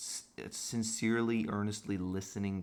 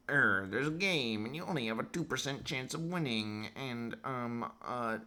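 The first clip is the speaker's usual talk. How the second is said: mock doomsayer; 3 semitones higher, slower than usual. Voicing the black pill's message, slow mocking drone. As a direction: drone it like a smug doom prophet.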